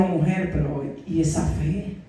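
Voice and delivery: Jesus voice. Acted.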